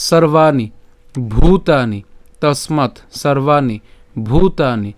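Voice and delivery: measured model reading of Sanskrit words; careful verse pronunciation for learners; recitation demo. Shown as a demonstration. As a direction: recite deliberately with long vowels and pauses. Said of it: "আমরা এখানে উচ্চারণ করছি".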